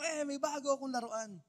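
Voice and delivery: a lightly voiced kid showing off a new toy; mock childish boasting; childlike bragging. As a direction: brag like a little kid, high and gleeful. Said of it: "para kang bata dito".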